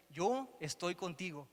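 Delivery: slow, with yo leaned on firmly; stress on yo. Shown as a demonstration. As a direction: land on Yo, then let estoy contigo settle slowly. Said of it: "en el presente, ahorita".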